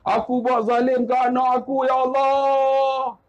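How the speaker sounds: mock lament, drawn out at the end; retold father's wail. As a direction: lament to God like a remorseful father. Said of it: "Teriak dia". (ratapan ayah yang menyesal)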